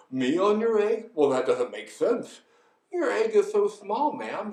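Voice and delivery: lightly voiced bemused elephant; protesting elephant. Elephant tells bird he is too big, bemused protest. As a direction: protest politely in a mild elephant voice.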